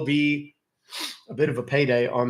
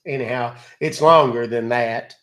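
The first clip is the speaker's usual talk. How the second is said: gullible caller voice; 5 dB louder, slower than usual. Acted. Acting victim to scammer.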